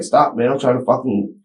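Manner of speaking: retold yelling. Father retelling yelling while dressing toddler, loud. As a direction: bark at the kid to hold still. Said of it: "I kept yelling at him".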